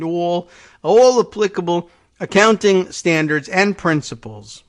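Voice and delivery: put-on a light New York accent on the repeated phrase. Still voicing the company's claim in a mild New York accent. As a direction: keep up a hint of a New York accent, mocking. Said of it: "now that's my New York accent".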